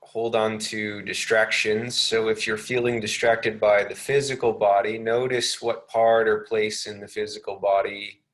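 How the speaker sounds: unhurried meditation guidance with long pauses; lightly measured, spacious meditation delivery; guided meditation. Real, not acted.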